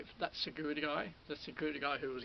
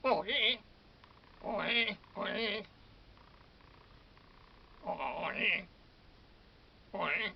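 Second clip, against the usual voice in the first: higher, louder excited yelps; excited exclamation; 4 semitones higher, 4 dB louder, slower than usual. Real, not acted. Vlogger celebrating his realisation, loud and high. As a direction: burst out with glee.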